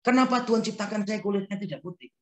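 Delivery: protesting to God. Retold or imitated. Preacher mimics a young woman protesting to God, a mild complaint. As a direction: whine the question at God. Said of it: "Protes dengan Tuhan".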